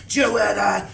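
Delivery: stern call. A narrator's reading. Mother angrily repeats order.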